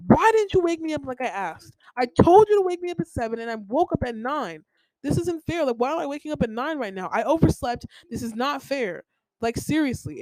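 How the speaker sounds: imitating mom yelling. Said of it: "she yells at me".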